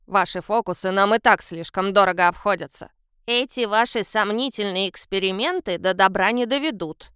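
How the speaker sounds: put-on low, reproachful old lady's voice; old woman scolding the young hunters. A narrator's reading. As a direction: wag a finger at them with your voice. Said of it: "погрозила крючковатым пальцем одна старушка".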